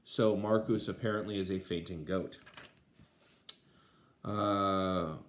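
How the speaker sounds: normal talking voice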